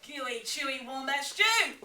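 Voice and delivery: loud, boastful Dingo; Dingo, proud of his stew. Acted. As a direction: brag about the stew. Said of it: "boasted Dingo".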